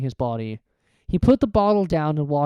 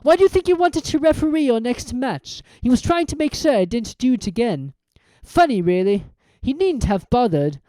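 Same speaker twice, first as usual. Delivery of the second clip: cold villain; 7 semitones higher, 4 dB louder than usual. Acted. Quirrell's cold gloating.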